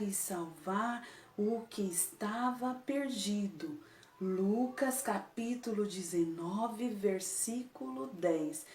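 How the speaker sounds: soft and slow, almost a whisper; bem baixinho. Shown as a demonstration. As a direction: say it very softly, slowly, as if to yourself. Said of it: "você vai falar bem baixinho". (bem baixinho, devagar)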